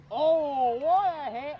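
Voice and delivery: big, high, loud play-by-play yell; excited shout. Real, not acted. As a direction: call the hit like the crowd just erupted. Calling a big hit live.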